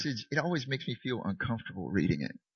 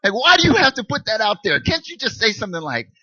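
whining protest; 5 semitones higher, 7 dB louder than usual. Retold or imitated. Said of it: "I'm like".

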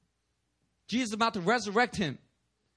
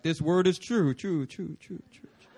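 fading echo; 4 semitones lower than usual. Acted. God's word echoing in a listener's ear, fading echo. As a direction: trail off like an echo.

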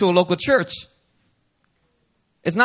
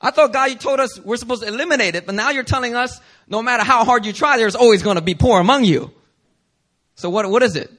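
puzzled objection; 5 semitones higher, 4 dB louder than usual. Pretend. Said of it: "wouldn't that seem to contradict".

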